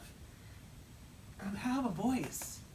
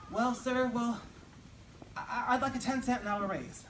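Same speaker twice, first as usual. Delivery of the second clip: nervous clerk; 5 semitones higher, 3 dB louder than usual. Acted. Nervous clerk asks for raise.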